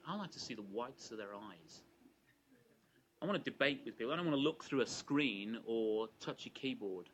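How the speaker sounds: mock Australian accent, keen to debate in person; bad Australian accent. Queensland politician insisting to interviewer, light Australian accent. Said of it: "apologies if I attempt a very bad Australian accent".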